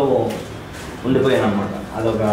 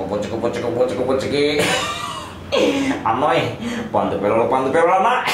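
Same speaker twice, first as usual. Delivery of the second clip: pleading comic brother-in-law, lightly voiced; Babu Mohan impression. Host asks for his first voice, a light Babu Mohan whine. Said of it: "ఒకసారి చేయండి అదే voice మళ్ళీ".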